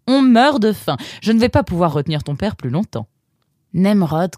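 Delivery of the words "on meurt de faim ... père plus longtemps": lightly voiced bustling mum; urging mother. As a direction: hurry them along to the table. Mother calls family to eat.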